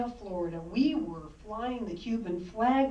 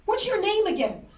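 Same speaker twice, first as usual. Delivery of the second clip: loud, higher call from the coach over the lane; coach yelling down; 8 semitones higher, 5 dB louder than usual. Retold or imitated. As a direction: bark it down at the kid in the pool. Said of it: "he yelled down".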